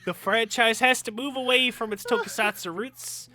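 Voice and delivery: put-on botched New Zealand accent reading; muddled bad accent. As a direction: fake Kiwi accent, sinking low and soft. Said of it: "what this fucking accent I'm doing is".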